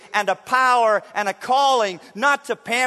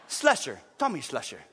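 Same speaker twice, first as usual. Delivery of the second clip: a hint of a cool spy intro; lightly mock a cool agent; Bond-style name; 6 semitones lower, 4 dB quieter than usual. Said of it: "try this".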